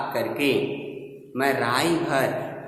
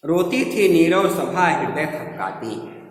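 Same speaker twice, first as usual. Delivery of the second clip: raised pitch easing down the line; declaimed line of verse; verse recitation; 4 semitones higher, 4 dB louder than usual. Shown as a demonstration. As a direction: recite it as poetry. Reciting a verse before explaining it.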